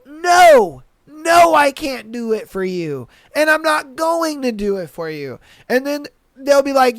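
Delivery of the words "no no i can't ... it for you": higher, louder flat-out no; firm refusal. Retold or imitated. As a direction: shut the customer down hard. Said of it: "And it's like".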